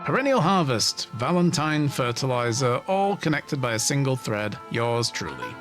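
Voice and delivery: smug villain monologue. Acted. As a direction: savour the reveal like a mastermind.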